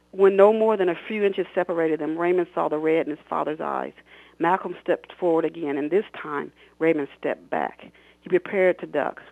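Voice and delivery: expressive read-aloud of her own novel; story narration. A narrator's reading. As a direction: read it like an audiobook, voicing the characters. Author reads novel excerpt aloud.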